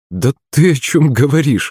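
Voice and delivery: a mild hint of grandma's surprise; lightly surprised asking. A narrator's reading. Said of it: "удивилась бабуля".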